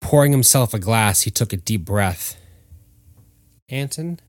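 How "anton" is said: ghostly call. Acted. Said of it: "came a voice from across the room".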